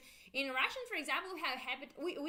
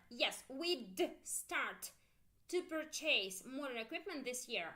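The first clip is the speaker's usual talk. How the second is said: slow model answer. Shown as a demonstration. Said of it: "listen carefully".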